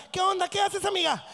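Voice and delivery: put-on high, chirpy girlfriend greeting; mock chatty female friend; women today. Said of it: "Ahorita las viejas".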